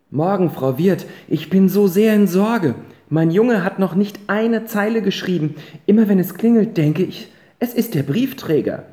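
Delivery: worried mother. Acted. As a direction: pour out the worry about the son.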